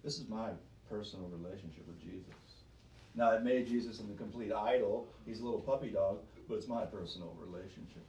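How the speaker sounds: guard it like a private toy; mock possessive believer. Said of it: "it's like".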